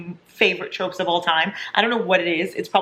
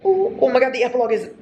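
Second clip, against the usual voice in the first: excited gasp; 6 semitones higher, faster than usual. Real, not acted. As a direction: squeal it out in sudden joy. Excited reaction to epilogue.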